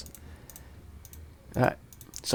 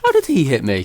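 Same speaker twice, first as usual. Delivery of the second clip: raging gamer; 4 semitones higher, 7 dB louder than usual. Real, not acted. Hit by mob, frustrated.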